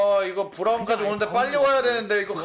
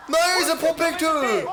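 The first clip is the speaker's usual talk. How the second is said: slow, drawn-out shouted call; fighting game announcer; 3 semitones higher, slower than usual. Acted. Hype caster calls the play.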